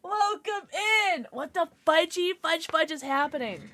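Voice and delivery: high-pitched, startled raid welcome; excited disbelief. Real, not acted. Streamer greeting Icy's surprise raid, excited disbelief. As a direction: squeal with thrilled surprise.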